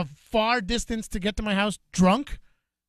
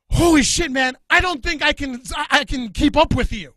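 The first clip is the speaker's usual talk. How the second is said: louder and higher, as if winded; out of breath; 6 semitones higher, 7 dB louder than usual. Retold or imitated. Girl telling him she can't keep up, mock out of breath. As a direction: gasp it out, half spent. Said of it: "this girl is out of breath".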